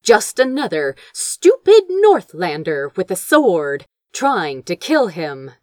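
usual speaking voice

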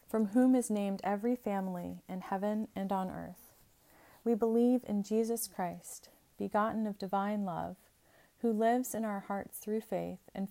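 steady liturgical recitation; recited creed. Acted. Creed said by congregation.

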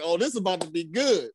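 chuckling through it; can't hold the laugh in; amused barber; laughing aside. Retold or imitated. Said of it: "It's like".

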